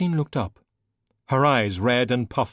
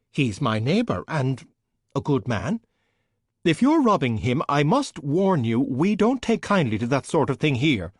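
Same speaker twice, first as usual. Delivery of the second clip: flustered neighbour; 5 semitones higher, 3 dB louder than usual. Acted. Francine's voice held by narrator.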